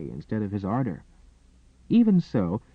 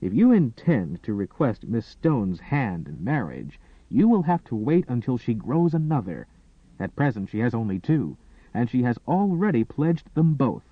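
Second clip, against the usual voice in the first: withering sarcasm. Acted. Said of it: "With withering sarcasm".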